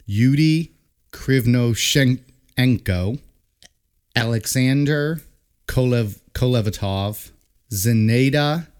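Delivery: each Russian name spelled out syllable by syllable; halting careful roll call; slow name reading. Shown as a demonstration. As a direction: read the list carefully, slowly. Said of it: "try reading them".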